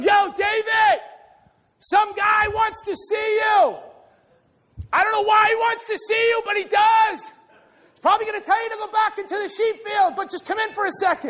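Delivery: shouted high call to David across the field. Retold or imitated. Brother calling David in.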